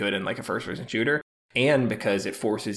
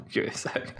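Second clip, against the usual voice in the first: giggling; 8 dB quieter than usual. Real, not acted. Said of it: "I'm just gonna giggle about dolly cam".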